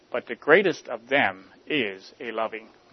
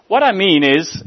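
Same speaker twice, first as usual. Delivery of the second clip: explaining clerk; 6 semitones higher, 7 dB louder than usual. Acted. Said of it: "explained the recorder".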